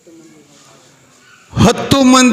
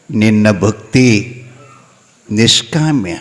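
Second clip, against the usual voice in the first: lower, solemn divine voice promising a boon; god's voice; 9 semitones lower than usual. Acted. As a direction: speak as the god blessing his devotee. God speaks to Konti. (ದೇವರ ಗಂಭೀರ ಧ್ವನಿ, ಕುಂತೆವ್ವಗೆ ವರ ನೀಡುತ್ತಾ)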